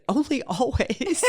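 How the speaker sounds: high, slow, hushed mock wise reply; Martha Beck quoting. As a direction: deliver it like a knowing oracle. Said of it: "And she said".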